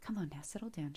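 put-on calming the startled boy, whispering; hushed whisper. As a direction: drop to a soothing whisper. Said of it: "I'll keep my voice down".

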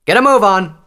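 high, full-voiced shouted order; urgent commander's shout; Tailwind calling out. A narrator's reading. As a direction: yell to hurry the troops along. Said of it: "Tailwind called out".

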